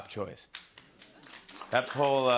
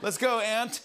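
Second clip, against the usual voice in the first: mock voice; 8 semitones higher, 4 dB louder than usual. Mock voice to guest.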